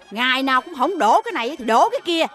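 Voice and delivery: exasperated telling-off of a housemaid; cross employer berating a servant; scolding. Acted. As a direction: rant at clumsy help, pitch swinging up.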